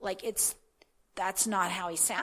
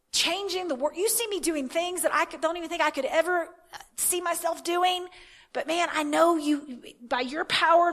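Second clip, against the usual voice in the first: rising, pleading rush of a prayer, louder and higher toward the end; frantic tizzy; 5 semitones higher, 4 dB louder than usual. Retold or imitated. Praying to God in a frantic, worked-up tizzy. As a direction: beg God for help in a worked-up panic. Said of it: "get myself in a tizzy".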